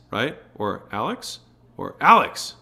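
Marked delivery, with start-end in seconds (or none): 0.9-1.4 questioning name call. Shown as a demonstration. Wife says husband's name another way, light questioning rise. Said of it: "Said differently, have different meanings". 2.0-2.5 ALEX short, loud and high; sharp name call. Shown as a demonstration. Wife summons husband by name, loud sharp call. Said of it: "Said differently, have different meanings".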